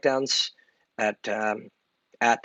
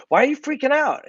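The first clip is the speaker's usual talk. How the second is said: higher, lightly acted self-challenge; mock challenge; 13 semitones higher than usual. Asking himself why he's freaking out, a mock surprised challenge. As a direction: question yourself as if surprised. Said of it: "and I would say".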